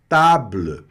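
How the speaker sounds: table said tabl, no final vowel; silent final E. Shown as a demonstration. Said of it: "ela não é pronunciada". (table sem pronunciar o E final)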